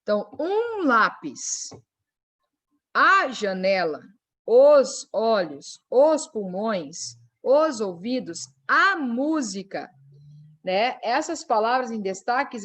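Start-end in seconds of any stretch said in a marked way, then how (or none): 0.0-9.9 slow, each article stressed and drawn out. Shown as a demonstration. Teacher reading article examples to class, slow stress on articles. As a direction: lean on um, a, os, slowly. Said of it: "Lembra lá do artigo?".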